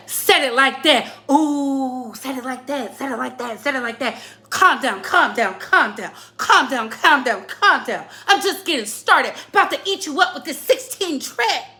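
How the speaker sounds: repetitive chanted hype in short bursts; mock battle rapper. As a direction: parody a battle rapper looping the same phrase. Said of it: "They be like this".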